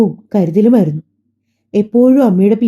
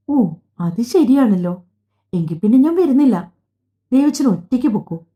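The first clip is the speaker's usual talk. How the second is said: put-on innocent child; 2 semitones higher, 4 dB quieter than usual. A narrator's reading. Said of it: "നിഷ്കളങ്കമായി പറഞ്ഞു".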